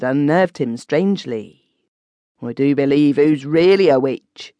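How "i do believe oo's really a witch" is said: put-on uneasy old villager voice. Spider muttering after witch scares him.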